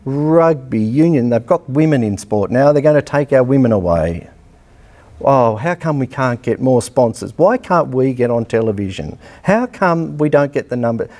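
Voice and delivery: sarcastic whinging parody of the sport's bosses; mock whining. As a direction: mimic the moaners with a put-on whine. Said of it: "all they do is poor bugger me".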